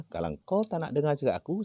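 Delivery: high, forceful mock threat; retold threat. Healer warning the unseen spirit in the forest, hard threat. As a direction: lay down the ultimatum to the spirit.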